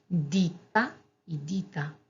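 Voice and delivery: "Dita" with a held tt, then "dita" with a single t; double t contrast. Shown as a demonstration. Teacher contrasting the pair for students. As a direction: hold the t on the first. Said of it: "Dita es empresa y dita".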